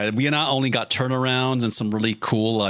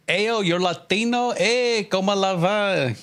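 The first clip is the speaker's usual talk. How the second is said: excited greeter impression; 9 semitones higher than usual. Streamer mimics a viewer asking about his heritage, excited greeter impression. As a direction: play an over-friendly greeter, pitched high.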